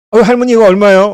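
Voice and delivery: loud, high call across the market stall; calling out to grandma. Retold or imitated. Customer calling loudly to the old market grandma. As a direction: shout the price question to the old seller.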